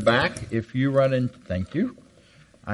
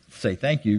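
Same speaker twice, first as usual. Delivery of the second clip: stern mother; 2 semitones lower than usual. Retold or imitated. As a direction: hiss a warning to the child, lightly voiced. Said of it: "my mother's glaring at me like".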